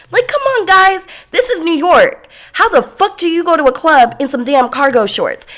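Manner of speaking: high, loud incredulous rant; outraged rant. Real, not acted. Ranting about guy in cargo shorts.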